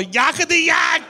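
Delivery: high, mock-shouted singer impression; Arnold Schwarzenegger. Action star performing on set, exuberant mock shout. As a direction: belt it out high in a put-on voice. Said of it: "watched Arnold Schwarzenegger go".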